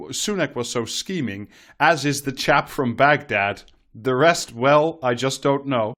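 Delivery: lively, rhetorical reading voice; column read-aloud. Acted. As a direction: read the column out with swooping emphasis. Reads a newspaper column aloud.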